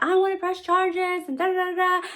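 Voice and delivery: mock screaming. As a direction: imitate a complainer up high. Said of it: "she's screaming her fucking head off".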